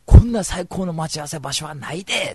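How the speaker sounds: hammed-up Kansai excitement; excited Kansai. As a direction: gush about the perfect meeting spot. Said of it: "もう興奮するわけよ".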